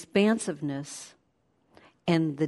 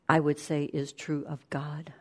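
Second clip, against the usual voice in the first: hushed; 4 semitones lower, 6 dB quieter than usual. Real, not acted. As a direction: drop to a soft whisper. Hushed aside about God.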